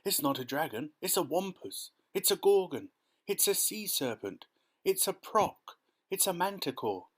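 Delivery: high, excited exclamations; one alarmed outcry topping the next; panicked crowd shouting. A narrator's reading. Firemen and police name the monster, high panicky shouts. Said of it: "all started shouting at once".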